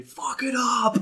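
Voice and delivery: high, loud laughing yell. Retold or imitated. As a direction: shout it at the screen, half laughing. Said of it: "I remember screaming at the T V".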